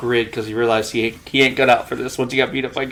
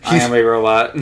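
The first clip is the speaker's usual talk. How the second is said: robot voice; 2 semitones lower than usual. Retold or imitated. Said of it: "I love robot humor".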